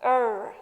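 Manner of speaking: "Er" as one drawn vowel with r, as in early; letter-string sound. Shown as a demonstration. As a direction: sound out "Er" by itself. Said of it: "What is the sound".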